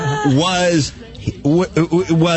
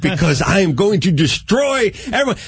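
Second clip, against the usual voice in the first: lightly hammed-up boastful announcement; grand proclamation. Friend warns the van of what is coming, mock proclamation. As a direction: proclaim it like a champ warning everyone. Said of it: "halfway into his proclamation".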